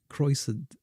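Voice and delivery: Croissant. said the French way, kwah-sahn; Croissant. with a French nasal ending; croissant, Parisian style. Shown as a demonstration. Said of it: "I hear you bastards say".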